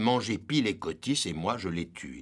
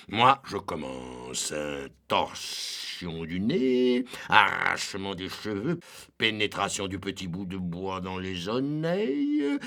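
lent, savourant chaque supplice; énumère avec gourmandise cruelle; délectation sadique. Acted. Ubu énumère les supplices. (cruauté savourée, lente)

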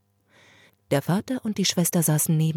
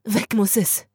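calling out; 4 semitones higher than usual. Acted. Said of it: "rief die Schwester".

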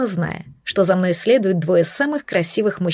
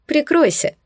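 higher, huffy command; snorted order; 7 semitones higher than usual. A narrator's reading. Brother catching the couple, huffy snort. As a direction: snort it at them, embarrassed. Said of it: "фыркнул братец".

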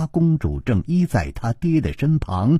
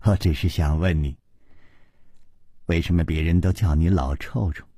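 low, soft feminine coaxing; gentle, low-voiced question from a princess; sweetly smiling princess; 9 semitones lower, 3 dB quieter, faster than usual. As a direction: ask it softly with a sweet smile. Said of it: "琵琶公主嫣然笑道".

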